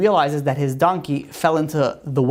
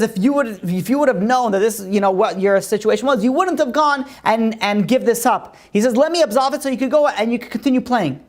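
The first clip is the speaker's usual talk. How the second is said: raised, pleading rabbi voice; a rabbi coaxing the chess master to accept; rabbi's plea; 5 semitones higher than usual. Acted. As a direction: urge him gently like a kindly rabbi.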